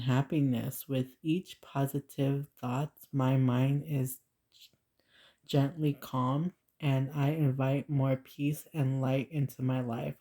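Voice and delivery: measured, unhurried read-aloud; affirmation reading. Acted. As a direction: read it out evenly and deliberately.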